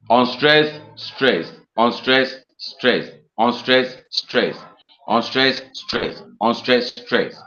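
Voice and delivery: five even beats, each "stress" falling away after "unstressed"; alternating metre pattern. Shown as a demonstration. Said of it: "five of them in that arrangement".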